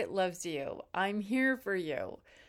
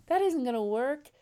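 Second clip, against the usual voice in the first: higher and louder, pressing the point; emphatic repeat; 4 semitones higher, 6 dB louder than usual. Real, not acted. Coach stressing to single viewers that "isn't" matters, emphatic. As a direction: say it again with more force on "isn't". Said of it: "repeated, louder and higher".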